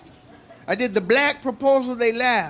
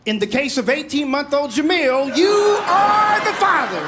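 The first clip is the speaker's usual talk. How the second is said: talk-show paternity reveal; 4 semitones higher than usual. Acted. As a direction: boom out the verdict like a daytime TV host. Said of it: "This is my impression of a black proposal".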